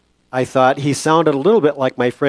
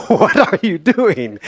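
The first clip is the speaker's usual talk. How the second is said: stretched, higher-pitched nurse voice, lightly acted; drawn-out, raised-pitch mock astonishment; nurse's incredulous question; 6 semitones higher, 4 dB louder, slower than usual. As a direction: play a nurse slowly asking in mock disbelief. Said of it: "a heavy African accent".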